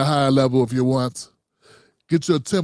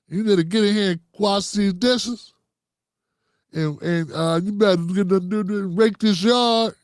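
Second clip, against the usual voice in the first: grandma ordering chores; 5 semitones higher than usual. Retold or imitated.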